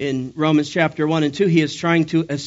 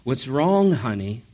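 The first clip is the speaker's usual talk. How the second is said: mildly acting clueless; lightly put-on concerned husband asking; feigned innocence. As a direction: play innocent, as if you didn't know. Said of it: "as if he didn't know".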